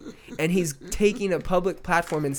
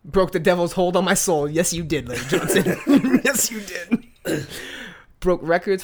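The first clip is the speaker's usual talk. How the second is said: louder, higher, laughing hype; hyped reading; 4 semitones higher, 4 dB louder than usual. Real, not acted. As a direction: hype up the quote. Reading tweet, hyping, laughing.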